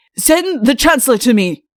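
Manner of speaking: angry voice. Read the king ordering his sentry from under the bedclothes, in an angry voice. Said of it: "said an angry voice from under the bedclothes".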